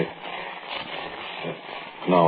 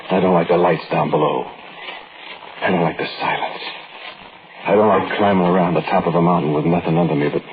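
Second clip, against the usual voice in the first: story narration. A narrator's reading.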